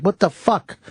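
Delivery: high, stunned outburst; shocked. Retold or imitated. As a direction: blurt it out in disbelief. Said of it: "I was in shock".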